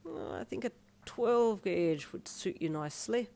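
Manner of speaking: slow, considering Irish piercer; Irish accent. Acted. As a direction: weigh it up in an Irish brogue. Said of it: "the Irish artist said".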